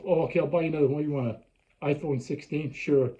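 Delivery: mock indulgent parent. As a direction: toss it off like a pushover parent. Parent voiced giving in.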